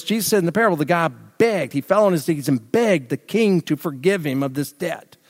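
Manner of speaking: normal talking voice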